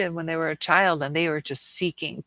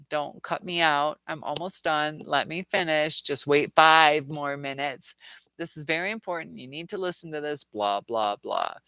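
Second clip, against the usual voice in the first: mocking narcissist; 2 semitones lower than usual. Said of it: "they say stuff like".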